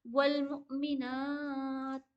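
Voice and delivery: extremely slow, sharp catch before मुमिनात; jolted hamza. Shown as a demonstration. Teacher showing the hamza jolt for students. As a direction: say वल मुमिनात slowly with a hard stop. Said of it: "झटका देंगे हम".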